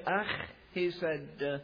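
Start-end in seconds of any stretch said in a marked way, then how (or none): 0.0-0.3 a light disdainful Scots "Ach"; mild disdain. Retold or imitated. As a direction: toss off "Ach" with a hint of scorn. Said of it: "disdainful way".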